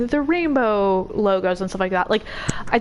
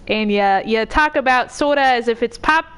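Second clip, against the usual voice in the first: Midwestern accent. Shown as a demonstration. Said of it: "It goes a little like this".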